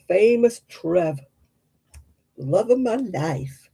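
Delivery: slow, affectionate gush; playful slow adoring tone; fond. Real, not acted. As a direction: dote on him slowly. Fond remark on favourite person.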